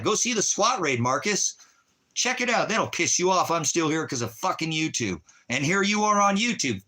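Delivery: venting real fury, pitch climbing; angry rant. Real, not acted. Heated rant about YouTube.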